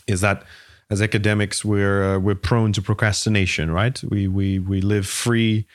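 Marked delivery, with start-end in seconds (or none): 4.0-5.7 slow, dry sarcasm; sarcastic. Real, not acted. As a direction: say it with an ironic edge. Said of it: "you can hear my sarcasm here".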